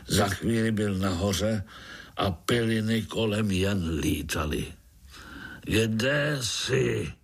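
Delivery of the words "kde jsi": shouting. Acted. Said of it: "křičel".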